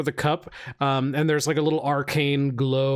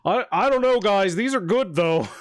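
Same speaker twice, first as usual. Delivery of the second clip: higher, hesitant approving voice; pitched-up, tentative defense; impressed bean taster; 4 semitones higher than usual. Acted. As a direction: play a taster won over. One taster speaks up for the beans.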